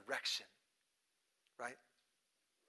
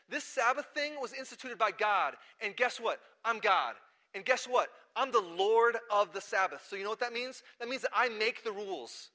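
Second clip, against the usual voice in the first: higher, louder declaration of authority; assertive; 6 semitones higher, 6 dB louder than usual. Retold or imitated. Jesus answers the Pharisees about the Sabbath, assertive. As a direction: lay down the law emphatically.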